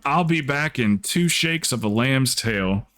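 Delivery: a light hint of a country drawl, slow; quoting the old saying lightly, slowed down; slow Southern saying. Speaker first quoting her teacher's saying, a mild slow Southern lilt. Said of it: "She used to say that all the time".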